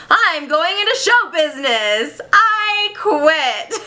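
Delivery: theatrical announcement rising high; acted defiance. Bloom answering his boss, acted defiance. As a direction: declare it like a stage exit. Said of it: "He's like, he goes".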